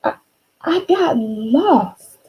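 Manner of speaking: lightly voiced timid monster, slow and small; a shy little monster owning up, slowly; small soft voice. Monster confessing to Marilyn, a touch timid and slow. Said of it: "in a small, soft voice".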